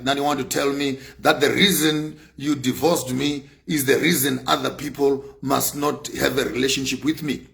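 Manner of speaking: ordinary delivery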